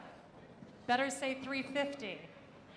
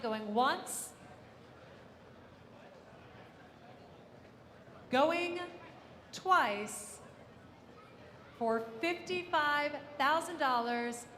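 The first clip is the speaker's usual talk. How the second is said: auctioneer; slower than usual. Real, not acted. Auctioneer closes the sale.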